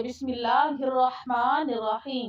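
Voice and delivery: slow, careful recitation; teacher modelling slow recitation. Shown as a demonstration. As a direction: recite each word slowly and carefully. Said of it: "جی، پڑھیے".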